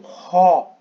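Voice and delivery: "ro" said loud and high with a strong aspirated h; Greek word demo. Shown as a demonstration. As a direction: hit "ro" loud with a hard breathy onset. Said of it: "tem uma aspiração forte".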